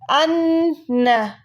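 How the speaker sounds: अन्न stretched very slowly with the नन held; drawn out model word. Shown as a demonstration. Teacher modelling the example word for students, drawn out. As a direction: hold the doubled न in अन्न long. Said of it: "आप ये example साथ में लिख लें".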